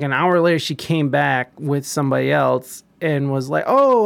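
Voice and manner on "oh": high, loud "oh" of mild surprise; retold surprise. Worker seeing residents come back, retold surprise. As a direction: act out being caught off guard, pitched up.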